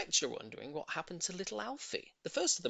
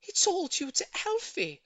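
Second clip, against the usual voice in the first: much higher, lightly breathless after the embrace; slightly breathless; 6 dB louder than usual. Acted. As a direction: say it a bit out of breath. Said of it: "slightly breathless".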